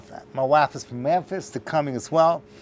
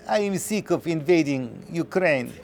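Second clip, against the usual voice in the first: laughing through a mock Russian accent; 3 dB quieter than usual. Russians arriving in Israel, mock Russian accent while laughing. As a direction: play a joke Russian, chuckling. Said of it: "The Russians say".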